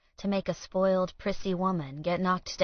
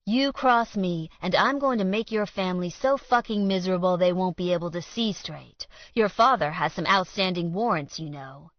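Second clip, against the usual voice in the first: threat; 2 semitones higher, 5 dB louder than usual. Acted. Alan threatens Colt.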